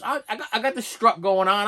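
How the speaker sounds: ordinary delivery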